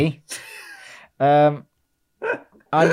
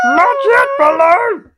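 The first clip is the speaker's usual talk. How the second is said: high, loud cartoon yell; acted shout of alarm, pitched way up; urgent calling out; 8 dB louder, slower than usual. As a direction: yell to stop your friend. Panther calling out to bear.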